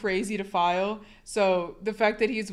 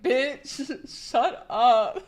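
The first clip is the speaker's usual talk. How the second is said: mock snappy retort; 4 semitones higher, much slower than usual. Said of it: "And I was like".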